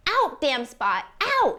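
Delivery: Lady Macbeth scrubbing her hands in her sleep; sleepwalker's lament. Acted. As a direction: drag it out, then snap up.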